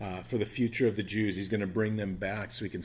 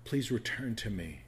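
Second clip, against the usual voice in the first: tender pleading as Jesus; lovingly pleading; 8 dB quieter than usual. Acted. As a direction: gently beg them to come home. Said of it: "lovingly pleading with them".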